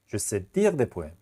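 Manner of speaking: steady slow repeat; slow classroom repeat. Shown as a demonstration.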